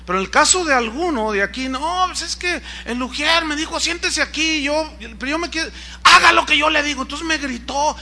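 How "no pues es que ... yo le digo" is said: higher, whiny voice of an offended member; higher complaining congregant voice; complaining churchgoer. Retold or imitated. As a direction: play the aggrieved church member tattling.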